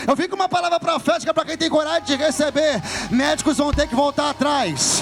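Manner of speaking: loud, high prophetic declaration, building to drawn-out shouts; full-force preaching. Real, not acted. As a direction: proclaim it to the congregation, stretching the climactic words. (pregação inflamada, aos brados)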